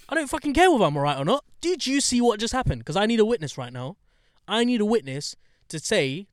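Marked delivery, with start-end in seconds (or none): 0.1-4.0 fast, high, exasperated retort; exasperated outburst. Retold or imitated. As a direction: spit it out fast and fed up.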